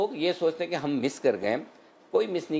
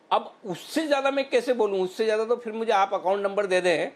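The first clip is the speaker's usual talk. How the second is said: much higher, mock-indignant plea; joking exasperation; 8 semitones higher than usual. Real, not acted. Analyst jokes he cannot say it any more strongly, mock exasperated. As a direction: protest in a high pitch, half in jest. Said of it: "माफ़ कीजिएगा, मजाक कर रहा हूँ".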